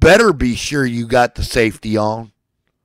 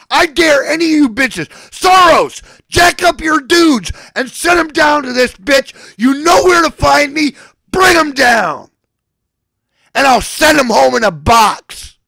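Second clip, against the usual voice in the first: screaming in rage, pitch up high and loud; furious ranting shout; angry shout; 11 semitones higher, 4 dB louder than usual. Real, not acted. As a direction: yell it straight at your enemies. Shouting threats at Soros.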